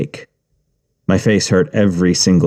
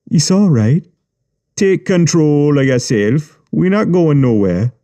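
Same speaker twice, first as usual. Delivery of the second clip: menacing calm; 6 semitones higher than usual. A narrator's reading. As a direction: soothe him with a threat underneath. Yubi falsely calm.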